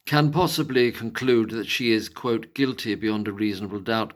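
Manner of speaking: lightly posh English quote-reading; resume the quote in a put-on posh accent. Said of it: "I'll do it in a posh voice".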